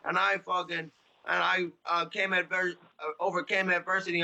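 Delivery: lightly voiced sneering impression of a fighter boasting; mocking Connor. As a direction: parody a braggart who lost, dragging it out. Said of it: "you're running around like".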